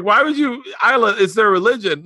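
high, loud mock reprimand; dad scolding his daughter, high and loud; exasperated high scolding. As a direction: scold the daughter in an excited rush. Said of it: "I was like".

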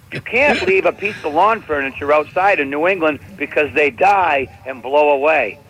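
ordinary delivery

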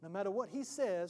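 hushed advocate's aside; confidential counsel. Acted. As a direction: quietly coach the client from the side. Advocate coaching the accused aside.

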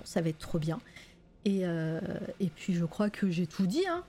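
out of breath. Real, not acted. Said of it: "j'ai plus de souffle déjà".

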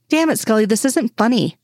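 understated annoyance; annoyed protest. Acted. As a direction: protest being teased, without raising volume. Acted quarrel, teased man protests.

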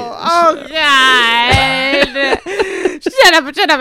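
laughing mock anguish. Real, not acted. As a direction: groan it in playful anguish. Laughing distress.

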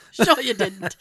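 sarcastic, breaking into laughter; laughing mock disbelief. Cashier teases the shopper, laughing.

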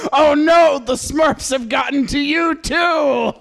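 alarmed. Pretend. Mock news alarm.

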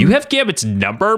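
high, shocked question; hammed-up outraged squeal; mock scream. A narrator's reading. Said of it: "Maddie screamed".

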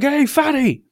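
high, mocking street heckle; re-enacted teenage jeer; retold scream. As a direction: yell it up high at a passer-by. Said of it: "we would just scream stuff".

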